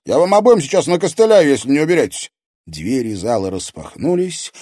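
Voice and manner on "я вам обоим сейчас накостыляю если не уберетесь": loud, higher threat; louder threatening outburst; angry threat. A narrator's reading. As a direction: warn them off angrily. Alex threatens the two.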